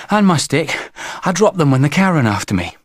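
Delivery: put-on high, plaintive child voice; high-pitched child; small boy. A narrator's reading. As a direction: explain it like a little boy after a scare. Boy explains lost things.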